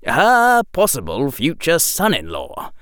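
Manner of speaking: usual speaking voice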